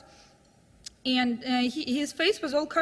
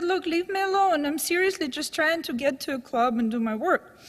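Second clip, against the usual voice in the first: angry; 3 semitones higher than usual. Retold or imitated. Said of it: "she got really angry with him".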